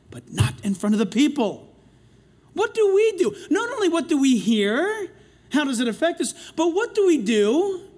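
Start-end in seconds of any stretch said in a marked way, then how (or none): 2.5-7.9 rousing question. Real, not acted. Preacher calls out question.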